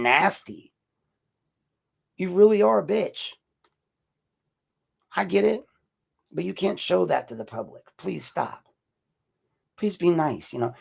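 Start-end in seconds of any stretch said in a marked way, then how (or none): 2.2-10.5 high, sweet-nice put-on voice. Shown as a demonstration. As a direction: say it in a much higher, forced polite voice. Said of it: "with my nice voice".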